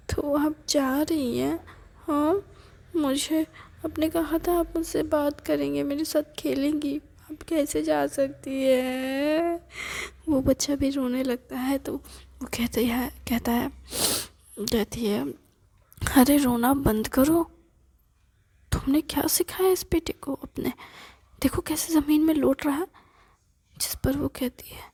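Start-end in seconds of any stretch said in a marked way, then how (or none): 0.1-9.6 put-on hurt child. Grandson begs his grandmother not to leave. 16.2-22.9 sharp loud scold, pitch up. Acted. Aunt loudly scolds the mother about the crying boy.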